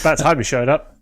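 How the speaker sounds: lightly hammed-up singer impression; botched singer impression. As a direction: have a failed go at an impression. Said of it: "gonna do a singer voice".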